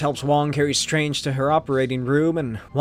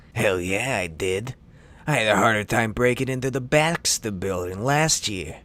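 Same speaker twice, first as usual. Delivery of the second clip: low thug voice; 5 semitones lower than usual. Acted. Voicing the villain Brigand.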